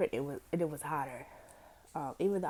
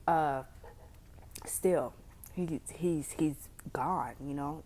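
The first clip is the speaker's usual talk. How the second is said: whispering; 3 dB louder, much slower than usual. Real, not acted. Sad story of missing father.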